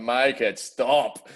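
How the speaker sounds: drawn-out, mildly hammed-up whine; slow, exaggerated self-mocking wail; mock crying plea. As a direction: plead it slowly, like a mock sob into wine. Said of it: "I was just bloody crying".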